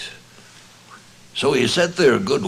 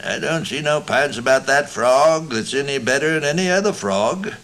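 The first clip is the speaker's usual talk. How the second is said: very deliberate; 6 semitones higher than usual. A narrator's reading. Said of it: "very deliberate".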